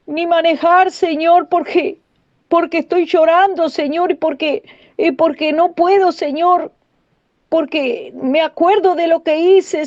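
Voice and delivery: high-pitched mock-tearful plea to God; retold tearful plea. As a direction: plead as if crying, retelling it. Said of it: "yo venía otro día de la iglesia llorando".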